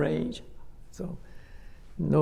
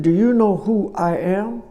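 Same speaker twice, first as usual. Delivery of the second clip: offended aristocrat; 4 semitones higher, 6 dB louder than usual. Retold or imitated. Offended aristocrat snaps at villager.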